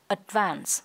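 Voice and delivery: ADVANCE ending in a light s; light final s. Shown as a demonstration. Teacher models ending sound, light s in ADVANCE. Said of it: "âm sờ nhẹ cuối".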